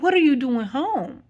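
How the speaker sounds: high, loud, baffled question; acted-out bewildered phone agent; confused caller. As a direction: imitate astonished disbelief. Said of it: "she was out of it".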